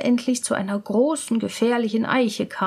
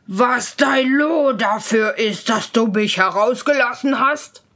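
menacing, forceful ghost; terrible spirit voice; 4 dB louder than usual. Acted. Freed spirit towering over student, terrible voice. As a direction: confront them as a fearsome giant spirit. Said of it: "rief er mit einer fürchterlichen Stimme".

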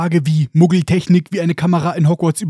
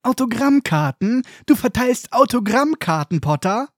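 sneering Malfoy; 6 semitones higher than usual. Acted. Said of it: "Laut und schneidig hallt sie".

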